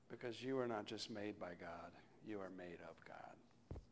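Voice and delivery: builds from soft to a breathed whisper; fading into a whisper. Real, not acted. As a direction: let the blessing sink to a whisper. Closing blessing, fading to whisper.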